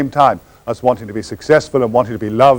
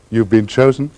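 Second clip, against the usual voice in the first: lightly voiced grand beggar, welcoming; smiling welcome; 2 semitones lower than usual. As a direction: offer it like a gracious host, with a smile. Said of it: "just smile with a welcome and say".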